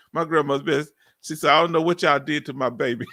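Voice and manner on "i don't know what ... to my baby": quoting grandma through a chuckle; fond laugh while quoting; amused retelling of grandma. Retold or imitated.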